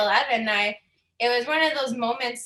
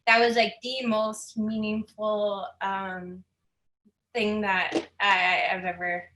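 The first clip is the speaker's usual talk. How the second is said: holding back tears; slower than usual. Real, not acted. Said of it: "I'm trying not to cry right now".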